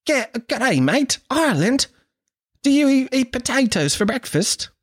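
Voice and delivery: very high, exaggerated Australian girl; Australian accent. Australian girl quizzing an Irishman on potatoes, high mock Australian accent. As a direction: squeal it in a broad mock Aussie accent. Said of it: "This is my Australian accent".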